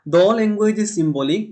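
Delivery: slow, deliberate reading of the English definition; slow dictation. Shown as a demonstration. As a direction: spell it out word by word for note-taking. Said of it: "reads definition slowly for students".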